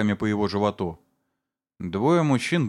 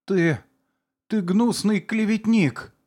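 high, slow strained outburst; forced-out outraged cry; 11 semitones higher, 3 dB louder, slower than usual. A narrator's reading. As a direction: squeeze the words out in outrage. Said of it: "выдавив из себя". (выдавленный высокий возмущённый крик)

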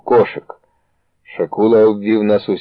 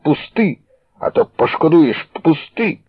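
higher, menacing demand; threatening to make him regret it; threatening hiss; 7 semitones higher than usual. A narrator's reading. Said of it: "сичав Шакула".

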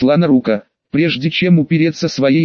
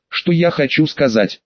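usual speaking voice

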